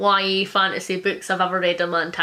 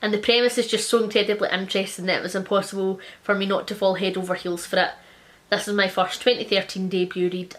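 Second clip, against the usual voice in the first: reading review aloud. Acted.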